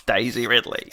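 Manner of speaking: self-conscious Aussie attempt; restrained Australian accent. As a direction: have a tentative go at Australian. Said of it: "wants me to do an Aussie accent".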